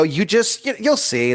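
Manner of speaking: very high cagey voice; evasive squeak. Pretend. Constellations evading Aaron's question, very high pitched. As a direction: dodge the question nervously.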